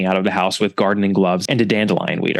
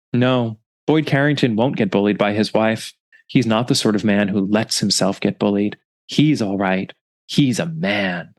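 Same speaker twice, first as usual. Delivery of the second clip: a lightly voiced empty, emotionless old man, slowing down; queer inexpressive voice. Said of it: "in what's described as a queer, inexpressive voice".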